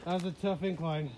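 winded, catching breath. Real, not acted. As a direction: still panting a little. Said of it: "I'm out of breath".

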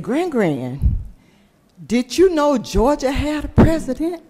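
a hint of an eager little boy asking grandma; child's voice. Grandson's question voiced in story.

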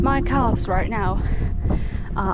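panting between words after the climb; out of breath. Real, not acted. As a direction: talk while still catching your breath. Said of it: "you can hear how out of breath I am".

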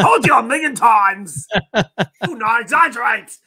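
a hint of a stern parent scolding; mock scolding voice. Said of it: "said it as the voice".

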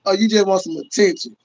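high laughing roast, half shouted; laughing mock. YouTuber laughing at a Lions fan, mocking. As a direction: laugh at him while roasting. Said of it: "Bro, I'm laughing like".

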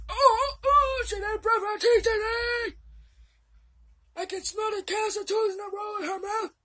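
loud, hammed-up grandpa; disgusted grandpa. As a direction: recoil at the smell, loudly.

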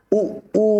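high-pitched "উ", first brief, then stretched; short then long. Shown as a demonstration. Teacher drilling learners, short then long "উ". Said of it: "আবারও বলছি".

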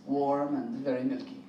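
low, soft mock French accent. Comedian doing a French chat-up line for the crowd, low mock French accent. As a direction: purr it like a hammed-up French lover. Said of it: "a French chat up line would be".

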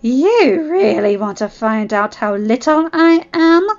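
loud, slow, menacing growl; growled threat. Acted. Claudine provoked by Zevon, growling. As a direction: make the question a threat. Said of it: "Claudine growled".

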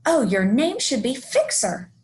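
name the hero with acted delight; delighted exclamation. Izzy delightedly names flying crow.

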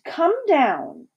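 high-pitched summons; commanding. A narrator's reading. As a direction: order her down from afar. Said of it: "she directed".

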